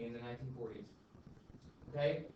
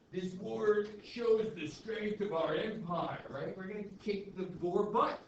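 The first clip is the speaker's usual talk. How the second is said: slow, proud newspaper boast; mock jingoist headline; 3 semitones higher, 4 dB louder than usual. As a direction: read it like a chest-thumping editor. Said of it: "very much written".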